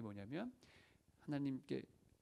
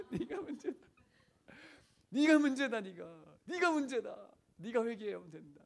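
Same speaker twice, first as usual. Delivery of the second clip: high, insistent mock rebuke; acted-out divine scolding in a raised voice; loud voice of God; 8 semitones higher, 4 dB louder than usual. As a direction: hammer the accusation home, easing down at the end. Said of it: "큰 목소리로 얘기하셨대요".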